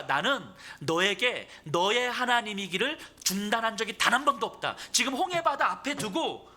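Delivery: high, loud, driving sermon delivery; full-force preaching. Real, not acted. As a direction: proclaim it with force to the congregation.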